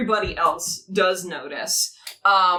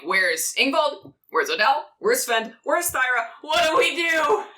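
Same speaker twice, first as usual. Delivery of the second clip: mock panic, climbing higher with each question; shouting soldiers, panicked; 5 semitones higher than usual. Game master voicing leaderless soldiers on the wall, mock panicked shouting. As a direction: build from ordinary pitch to a high, frantic cry. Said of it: "running around shouting".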